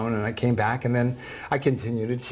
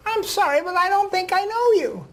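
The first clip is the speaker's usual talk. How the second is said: put-on old woman voice. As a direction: voice the ninety-four-year-old gently. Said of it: "I'm gonna use a voice that s-, sounds like her".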